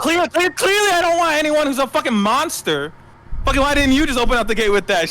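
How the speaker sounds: high, exasperated outburst. Acted. French woman snapping at the player in disbelief. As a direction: burst out in disbelief at the question.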